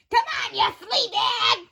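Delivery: scolding call. Acted. Scolding dog, calling out.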